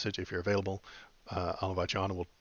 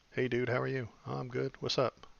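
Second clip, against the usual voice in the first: higher surfer dude voice, lightly done; casual valley dude voice; nineties mall dude; 4 semitones higher than usual. Retold or imitated. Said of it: "talking like they're at the mall in the nineties".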